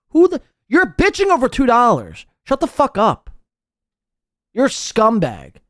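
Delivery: ordinary delivery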